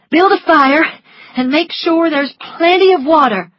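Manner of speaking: commanding. A narrator's reading. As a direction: bark out the orders. Scarlet ordering Prissy.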